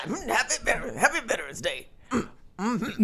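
put-on old Black man. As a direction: imitate an old Black man, humming between words. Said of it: "an old black man out there that'll be like".

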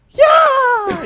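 high, loud whooping yeah; hype man shout. Pretend. Hype man backing up the congressman's point, whooping shout. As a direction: hype the speaker from the back. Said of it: "Howard Dean in the back and going".

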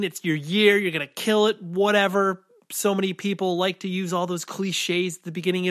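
stuffy, blocked nose; talking through a head cold; nasal voice. Real, not acted. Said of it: "I apologize for the nasally nature of my voice".

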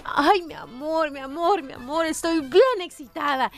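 slow, drawn-out pillow talk; lightly acted wife cooing to her husband; imitated wife. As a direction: stretch out each endearment. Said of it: "llega a la cama con Piolín y le dice".

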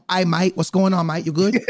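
lightly put-on English accent. Homie home from work greets family in English accent. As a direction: try a casual, hammy English accent. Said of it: "That's my English accent, by the way".

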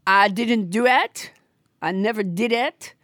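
hammed-up puppet Trump voice, bossy and boastful; French Trump puppet. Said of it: "everybody's least favorite hand puppet, French Trump".

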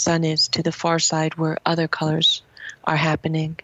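measured reading of a book passage; calm public reading voice; reading aloud. Acted. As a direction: read it like a short literary essay to an audience. Reads a passage from her book.

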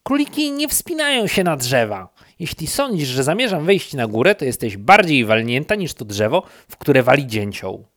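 high loud rabbit voice yelling up; shouting back. Acted. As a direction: holler up at the silly bear. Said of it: "odkrzyknął królik". (królik krzyczy głośno i wysoko w górę)

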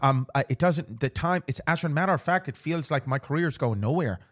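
rambling in a playful Irish lilt; put-on Irish accent. Host confiding about holiday season, mock Irish accent. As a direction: keep up the Irish brogue.

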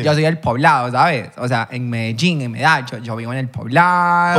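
imitar el acento de Medellín; acento paisa. Acted. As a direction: habla como paisa del Poblado, presumiendo del barrio. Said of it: "Ese sí". (acento paisa de Medellín, actuado)

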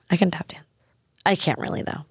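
whispered aside. Real, not acted. Admitting her tap dancing, whispered aside. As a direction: whisper it like a secret. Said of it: "whispered aside".

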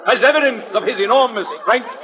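grand sideshow barker spiel; booming carnival pitch to the crowd; florid victorian lecturer. Acted. Street pitchman hawking to a crowd.

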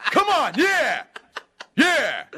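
loud, high-pitched rallying yell; screaming cheer. Retold or imitated. Lone fan urging a silent theater on, screaming. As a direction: whoop at full volume from the back. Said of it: "voice screaming from the back".

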